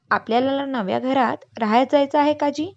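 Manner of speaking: put-on child pestering his uncle about the new house, eagerly; eager child's question. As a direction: ask it like an excited kid with जायचं lifted up.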